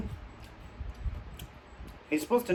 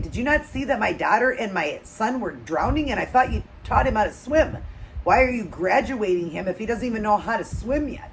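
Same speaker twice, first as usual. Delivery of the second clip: retold angry yelling; 3 semitones higher than usual. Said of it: "she starts yelling at the lifeguard".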